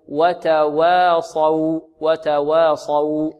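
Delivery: وتواصوا very slowly, both waws light around a heavy Saad; ترقيق الواوين. Shown as a demonstration. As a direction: stretch وتواصوا, keeping the final "aw" thin. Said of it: "هكذا". (ترقيق الواوين وتفخيم الصاد في وتواصوا)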